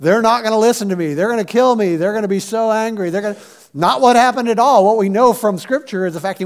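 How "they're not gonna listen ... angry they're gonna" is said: quick, mildly panicky run of worries; anxious worrying. Acted. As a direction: pile up worries in a hurry. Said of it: "classic example of anxiety because what was he worried about".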